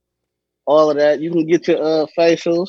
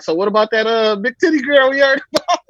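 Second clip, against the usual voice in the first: teasing relative; 5 semitones higher than usual. Retold or imitated. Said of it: "It's like".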